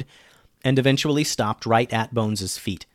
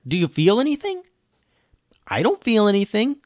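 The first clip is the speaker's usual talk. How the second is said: put-on excited girl voice; 9 semitones higher than usual. A narrator's reading. Girls testing potion.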